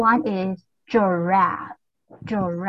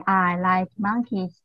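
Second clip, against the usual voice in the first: slow model sentence; 2 semitones lower, slower than usual. Shown as a demonstration. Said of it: "So you say".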